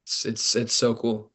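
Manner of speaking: talking with mouth full; chewing. Real, not acted. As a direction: chew while you talk. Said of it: "Hold on, I'm chewing".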